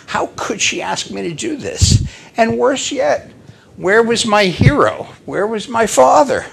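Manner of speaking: high, mildly distraught questioning; acted dismay, pitched high; anguished child. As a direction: lament like a betrayed little boy.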